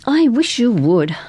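high, slow wistful wish. A narrator's reading. Girl wishing to be hired, wistful. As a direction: wish aloud, drawn out. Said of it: "Cardi said wistfully".

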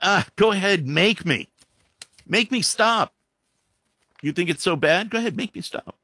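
sneering playground dare; mocking taunt. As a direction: taunt them like a smug bully daring anyone. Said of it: "somebody yells out".

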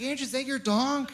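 put-on talking to a toddler. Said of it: "I was like".

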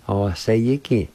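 "or sayiki" said slowly as one word; careful teacher's repeat of "or sayiki"; whole-word pronunciation demo. Shown as a demonstration. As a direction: model "or sayiki" slowly without breaks. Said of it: "I'll pronounce it one more time".

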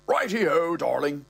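high, chirpy agreement; obliging old man. Acted. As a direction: agree eagerly like a doting old husband. Old man's eager agreement.

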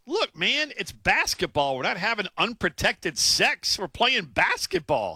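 high, slow, mock-exasperated quote; imitating an exasperated player's comeback; retold incredulous reply. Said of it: "He goes".

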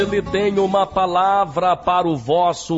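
emphatic preacher's campaign promo; radio church announcer. Acted. Announcer inviting listeners to Friday's campaign, emphatic radio preacher. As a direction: announce it with solemn, punchy emphasis.

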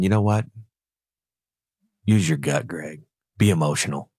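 tempting devil voice. Retold or imitated. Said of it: "And the old one saying".

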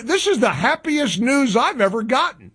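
mock-happy sarcasm; sarcastic. Host on the network boycott, sarcastically delighted. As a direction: feign delight, with a touch of sarcasm. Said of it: "I was being sarcastic".

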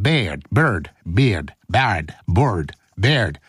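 trying out Beard, Bird, Bard as different vowels; trying pronunciations. Shown as a demonstration. Host fumbling for the right way to say the name. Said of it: "Producer Sexy Saxon Beard".

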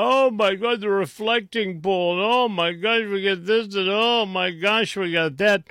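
high, whiny mock outrage at the left; a sarcastic imitation of panicking liberals; mock liberal panic. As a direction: ham up a hysterical liberal gasping. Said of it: "the left has gone".

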